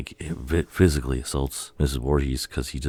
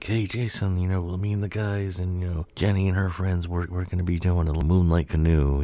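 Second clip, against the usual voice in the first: higher-pitched mock-casual coaxing; fake-friendly invitation; 6 semitones higher than usual. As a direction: lure him in with a put-on friendly voice. Voices bully luring boy along.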